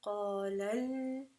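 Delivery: "qala al-" drawn out slowly, second syllable stepped up and held; inflected nabr. Shown as a demonstration. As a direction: show the inflection on "al-", slow and sustained. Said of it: "You have to make an inflection of sound".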